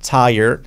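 "tired" stressed on first syllable, "TÁI-er"; acento inicial. Shown as a demonstration. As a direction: lean on "tai" in "tired", no d. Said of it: "acento en la primera sílaba". ("tired" como "táier", acento al principio)

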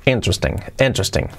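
"Interesting" with the weight on IN, middle e dropped; stress on first syllable. Shown as a demonstration. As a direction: say "interesting" as IN-tresting. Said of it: "Con acento en la primera sílaba".

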